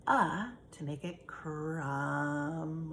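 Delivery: crumb drawn out slowly with the uh sound. Shown as a demonstration. Teacher slowly modelling crumb for young students. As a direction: stretch it for the class. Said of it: "I'm gonna take out the E".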